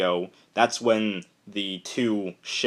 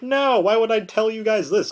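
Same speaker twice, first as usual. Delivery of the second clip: squeaky high indignant retort; high mock-indignant squeak; 12 semitones higher, 4 dB louder than usual. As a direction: pitch it way up like a squeaky cartoon. Megatron retorts in retold scene.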